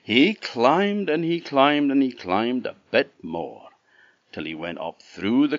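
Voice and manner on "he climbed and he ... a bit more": building up. A narrator's reading. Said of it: "building repetition".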